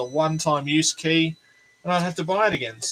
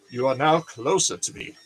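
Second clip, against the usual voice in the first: posh voice. Pretend. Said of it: "so I can use my posh voice".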